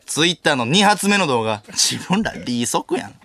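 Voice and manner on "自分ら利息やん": Hamada CM line. Retold or imitated. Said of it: "出前館のシーエムの浜田さん".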